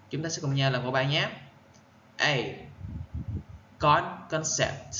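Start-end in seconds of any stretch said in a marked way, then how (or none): 3.8-4.9 "concept" as CON-cept, first part isolated first; first-syllable stress. Shown as a demonstration. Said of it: "Nhấn âm, âm một". (nhấn âm một của "concept")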